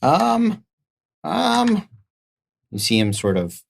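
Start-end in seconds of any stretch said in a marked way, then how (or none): 0.0-1.9 high, squeaky dithering; small creature stalling for time; put-on high voice, unsure; little merchant hesitating. Merchant character hesitates, panicking.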